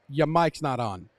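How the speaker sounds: slow and deliberate, every word spaced; slow spelled-out quote. Retold or imitated. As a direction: spell it out slowly. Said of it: "He spelled it out there".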